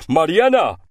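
high, loud cry of despair; a loud, despairing cry for Mariana; desperate shout. A narrator's reading. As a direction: call her name in anguish. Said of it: "gritó desesperado".

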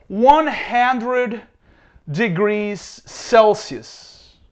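slow, words built up bit by bit; slow model sentence. Shown as a demonstration. Teacher building an example sentence for students. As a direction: build it up slowly word by word. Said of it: "example sentence".

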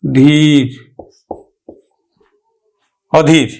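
low, careful অধীর, "aw-dheer"; open initial vowel. Shown as a demonstration. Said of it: "অ এর মতোই উচ্চারণ হবে". (অধীর-এর অ বিবৃত উচ্চারণ)

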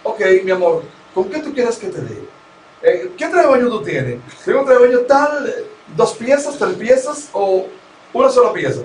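lightly voiced flirty DJ; a hint of a playful radio host; imitating Tommy Melo. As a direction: tease the caller with a smooth on-air voice. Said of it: "decía Tommy Melo".

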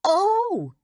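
high loud wail; sob cry. A narrator's reading. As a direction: break into a sobbing Oh. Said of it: "she cried more".

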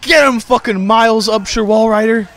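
cheering. Real, not acted. Cheering for his character's win. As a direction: cheer the hero on.

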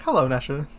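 low, soft mocking greeting; mock quiet greeting. Imitating a friend greeting the monster softly. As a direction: echo the friend's quiet hello. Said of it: "you're like".

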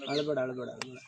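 low, soft hushing; gentle consoling. Real, not acted. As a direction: soothe someone who is crying, quietly. Consoling a crying old woman. (ಮೆಲುದನಿಯಲ್ಲಿ ಸಮಾಧಾನ ಮಾಡುತ್ತಾ)

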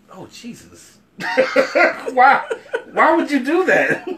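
shocked, laughing outcry; startled laughing. Real, not acted. Startled by a prank from cohost.

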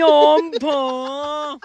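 drawn-out mock honk. Real, not acted. Drawn-out call in game banter.

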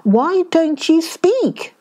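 high-pitched, mildly anxious question. A narrator's reading. Shark presses the silent monkey to speak, anxiously. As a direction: press for an answer with a touch of worry. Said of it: "said the shark anxiously".

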